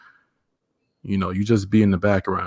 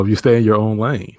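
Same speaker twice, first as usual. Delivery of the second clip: louder, firm restatement; emphatic repeat; 6 dB louder than usual. Real, not acted. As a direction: say it again firmly, louder. Guest repeats answer with emphasis.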